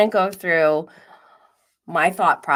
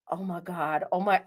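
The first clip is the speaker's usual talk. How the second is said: hushed disbelief; 6 dB quieter than usual. Retold or imitated. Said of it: "and I'm like".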